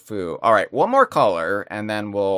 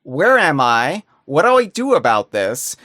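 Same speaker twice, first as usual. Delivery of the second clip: freaked out; 4 semitones higher, 5 dB louder than usual. Retold or imitated. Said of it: "And I freaked out".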